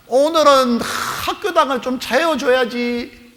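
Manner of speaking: high, slow drawled excuse; mock whining child. Child to mother waking him for church, high slow whine. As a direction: drag it out like a kid refusing to get up.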